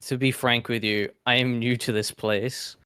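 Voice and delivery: sly sticky chameleon; a lightly voiced lizard, sly and hissy. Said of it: "in my lizard tone, I'll say".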